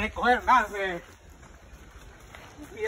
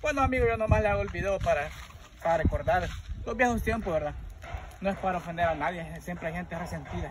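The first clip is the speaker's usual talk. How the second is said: talking while chewing fruit; pausing to eat between words; mouth full. Real, not acted. Seen 1: Hand repeatedly brings fruit to mouth while talking, bowl held.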